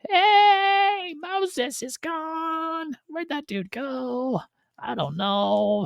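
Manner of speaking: very high, far-off mocking voice; sing-song mock of the fickle crowd; whiny mock crowd voice; mocking the people. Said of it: "the people of the land at Sinai are like".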